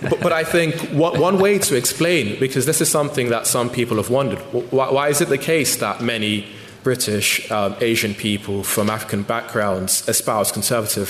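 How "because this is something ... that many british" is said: ordinary delivery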